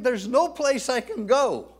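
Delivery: a touch of David's voice; mild voicing of David. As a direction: speak as David, pleading a little. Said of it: "David's saying".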